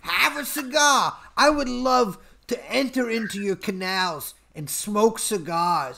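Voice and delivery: hammed-up Brooklyn wooing; Brooklyn accent. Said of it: "Uh, Brooklyn accent".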